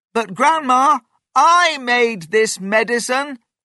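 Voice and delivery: very high, loud, all-out shout. A grandson calls to his grandma, who claims magic powers: shouting. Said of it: "shouted George".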